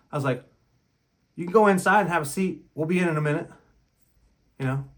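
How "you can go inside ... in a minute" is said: a touch louder, firm but civil; firm polite dismissal. Retold or imitated. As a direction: send her off politely but firmly. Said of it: "just like that, in that tone of voice".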